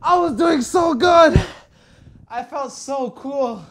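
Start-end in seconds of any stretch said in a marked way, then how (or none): 0.0-1.4 frustrated yell. Real, not acted. Frustrated after dying.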